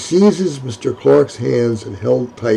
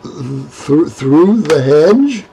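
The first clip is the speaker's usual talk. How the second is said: incredulous; 2 semitones higher, much slower than usual. Acted.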